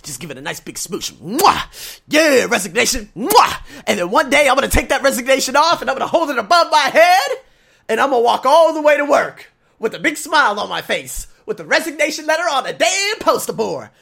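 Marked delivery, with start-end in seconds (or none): 1.1-3.6 high, loud gleeful smooches; excited kisses. Pretend. Kissing the letter, excited. 3.9-13.9 high, loud, laughing as he pictures it; giddy laughter through the words; laughing excitedly. Real, not acted. Gleeful fantasy of quitting.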